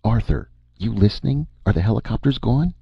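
high, urgent called questions; yelling. A narrator's reading. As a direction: call out urgently, ending high. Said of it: "he yelled".

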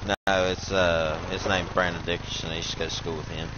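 talking around a dip; lip full of dip. Real, not acted. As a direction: mouth full of chewing tobacco. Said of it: "I done got a dip in too".

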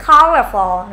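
"Colorful" loud and clear, ending on dark L; final L. Shown as a demonstration. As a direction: put the whole "Colorful" together for learners. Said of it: "Âm L cuối này".

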